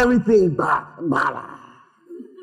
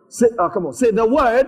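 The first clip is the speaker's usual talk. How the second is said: preaching call; 5 semitones higher, 3 dB louder than usual. Real, not acted. Call and response with congregation.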